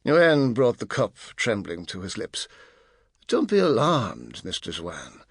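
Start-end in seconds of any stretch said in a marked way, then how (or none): 3.3-5.2 smiling reassurance. Acted. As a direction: soothe him with a cool smile. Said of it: "smiled Artemis".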